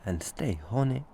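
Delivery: lightly put-on South African accent; jokey African accent telling a woman off. Host teases co-host in a mock African accent. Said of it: "only an issue with my African accent".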